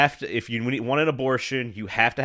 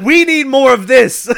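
mock enthusiasm; 13 semitones higher, 12 dB louder than usual. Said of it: "You're like".

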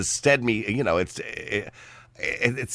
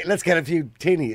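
put-on tentative Aussie accent; Australian accent attempt; 3 semitones higher than usual. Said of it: "What about the Australian accent?".

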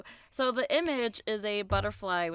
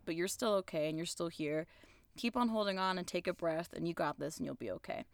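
softer, gentle reassurance; reassuring; 2 semitones lower, 6 dB quieter than usual. Real, not acted.

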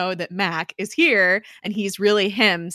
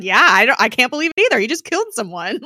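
louder, higher mock protest; indignant; 5 semitones higher, 6 dB louder, faster than usual. Gemma answers Mace about the killer she loves, indignant. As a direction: push back indignantly in an imagined retort.

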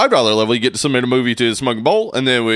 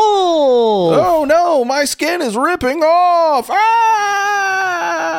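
high, strained cries of pain; painful werewolf transformation; much slower than usual. Pretend. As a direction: skin tearing, scream it out.

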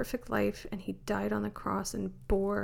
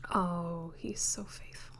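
soft whisper; 3 semitones lower, 5 dB quieter than usual. Real, not acted. Tender whispered aside of praise.

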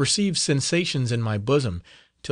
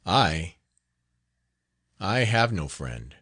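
near tears; 4 semitones lower, slower than usual. Acted. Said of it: "he sobbed audibly".

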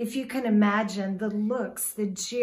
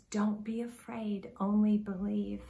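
compassionate. Shown as a demonstration. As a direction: say it kindly, with compassion, to comfort him. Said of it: "you might think he said it quite empathetically".

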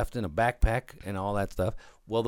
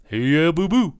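a hint of the mock Italian accent, louder; lightly voiced Italian bear; 5 semitones higher, 5 dB louder than usual. Host voicing the bear over the video, a hint of Italian accent. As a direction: greet boo-boo as the bear. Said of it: "Here's the bear right here".

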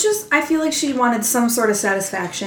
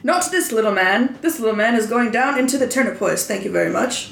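lightly voiced character impression; a touch of put-on character formality; slightly acted reply, light character voice; Tyrion. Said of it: "you have to do it in Tyrion's voice".

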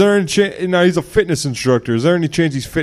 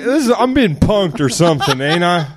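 Doctor Phil voice; 2 semitones higher than usual. Retold or imitated. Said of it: "Doctor Phil's like".

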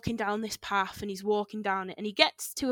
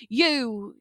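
shouting; 3 semitones higher, 5 dB louder than usual. Retold or imitated. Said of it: "shouting at the old man".

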